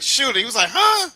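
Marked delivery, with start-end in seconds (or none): 0.0-0.4 high, loud mimicked command; imitated shooter. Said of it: "He's like". 0.7-1.1 very high, loud "huh"; mad mock cry. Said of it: "he was mad when he missed the shot".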